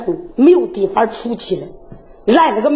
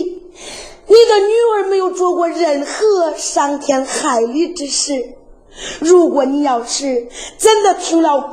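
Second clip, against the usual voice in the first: tearful pleading daughter; 2 semitones higher than usual. Acted. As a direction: beg him to believe you, close to tears. Daughter pleads with father, crying. (女儿含泪哭诉求爹爹)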